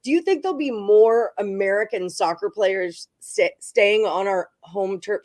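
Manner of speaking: sick, swollen-throat speech, slowed; talking through a swollen throat and tongue. Real, not acted. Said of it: "Sorry, my tongue is, like, swollen".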